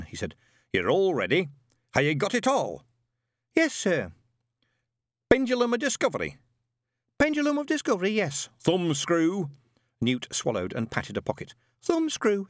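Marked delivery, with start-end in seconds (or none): 0.7-9.5 put-on high, barking old sergeant; old witchfinder sergeant. A narrator's reading. Shadwell drilling Newt through the kit list, barking. 11.8-12.5 put-on high, meek young recruit; nervous Newt. A narrator's reading. Newt answering his sergeant, high and meek.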